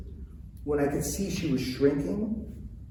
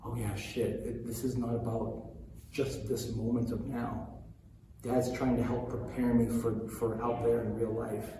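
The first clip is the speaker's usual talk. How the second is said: quiet realization; 3 semitones lower, 7 dB quieter than usual. Retold or imitated. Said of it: "she was like".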